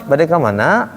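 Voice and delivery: Sundanese question, curving up on MANA; Sundanese intonation. Shown as a demonstration. Teacher shows how Sundanese ask, curving Sundanese tune. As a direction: ask it with a curved Sundanese lilt. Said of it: "Kalau Sunda kan".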